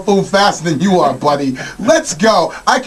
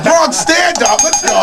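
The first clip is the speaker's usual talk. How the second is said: Bronx shout-out; 11 semitones higher than usual. Real, not acted. Hyping the Bronx.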